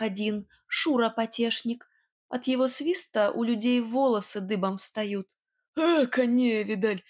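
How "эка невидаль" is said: lightly voiced smug brigand; smug smirk. A narrator's reading. Nightingale dismissing the rival whistler: smug smirking scoff. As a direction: brush it off, feeling superior. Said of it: "с превосходством ухмыльнулся Соловей".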